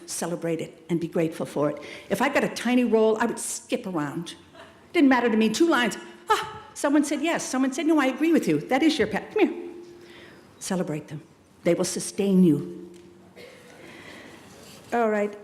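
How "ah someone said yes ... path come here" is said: high-pitched, gleeful little celebration; delighted. Acted. Actor rejoicing over a tiny two-line role, delighted. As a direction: act out the thrill of being told yes.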